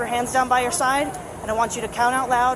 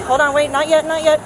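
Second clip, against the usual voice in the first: loud, sharp halt; firm stop; 4 semitones higher, 6 dB louder than usual. Real, not acted. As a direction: stop him right now. Officer stops early start.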